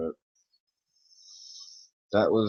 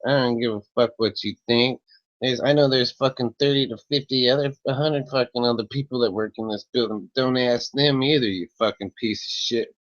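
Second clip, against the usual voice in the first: louder, higher angry tirade, imitating the lady; retold furious yelling; 4 semitones higher, 4 dB louder than usual. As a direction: hurl abuse at him like the irate clerk. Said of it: "the lady's like".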